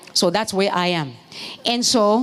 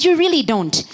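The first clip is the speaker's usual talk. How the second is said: repeated shout; 6 semitones higher than usual. Real, not acted. Preacher repeating to the congregation, shouting. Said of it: "I said".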